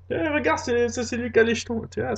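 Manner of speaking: mocking girl.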